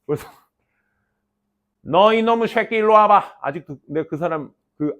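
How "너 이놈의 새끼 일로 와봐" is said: lightly voiced gruff old teacher, raised; old teacher impression. Old English teacher summoning a pupil, mimicked. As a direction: mimic an old man calling a kid over. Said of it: "그분 성대모사를 되게 잘했거든".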